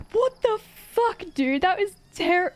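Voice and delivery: high, drawn-out mock disbelief; high incredulous squeal, half laughing. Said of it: "I was like".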